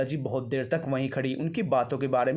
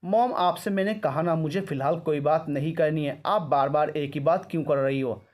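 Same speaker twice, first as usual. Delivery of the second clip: raised, irritated retort; angry snap. Acted. Daughter refusing mother's questions, irritated snap. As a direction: push mom away, annoyed. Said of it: "Simmi ने गुस्से में कहा".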